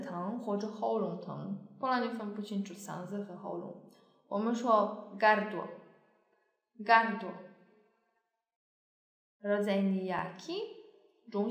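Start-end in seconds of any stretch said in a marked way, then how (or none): 4.3-7.3 gardło said slowly, each sound clear, rolled r; teacher spelling out gardło slowly; slow careful gardło. Shown as a demonstration. Teacher modelling gardło slowly for Chinese learners.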